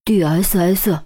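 D S S bitten off letter by letter through gritted teeth. A narrator's reading. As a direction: spit out D, S, S one letter at a time, teeth clenched. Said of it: "咬着牙一字一顿吐出".

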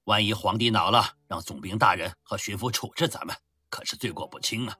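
mumbling with a mouth full of mutton; marbles in mouth. Acted. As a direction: chew and mumble the words. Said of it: "一边含糊不清地说道". (嘴里塞满羊肉含糊地说)

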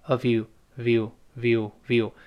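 "of you" merged into view; linked of you. Shown as a demonstration. Teacher drills the linking, "of you" turning into short "view". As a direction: join v and you so "of you" becomes "view". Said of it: "半元音跟前面的辅音要连读".

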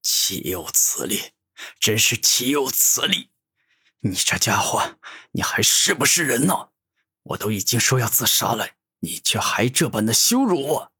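outraged protest at being mocked; indignant cry of insult; angry. Humiliated Six Paths Holy King protests to Gu Tianming, angry. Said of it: "十分生气地说道".

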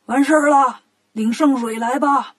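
mild call to those outside. Acted. 做好了喊道士进来领圣水, mild call. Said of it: "然后做好了喊".

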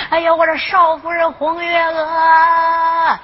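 slow, drawn-out call across the courtyard. Acted. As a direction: stretch the words out to carry far. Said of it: "扯着嗓子喊起来了". (拉长嗓子喊)

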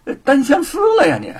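mock him through laughter; laughing tease. A narrator's reading. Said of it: "吴承恩哈哈大笑".

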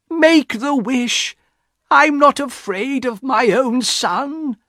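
high, slow, impassioned command; insistent cry. A narrator's reading. Wife demands wish from husband, defiant cry. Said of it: "Missus White cried again".

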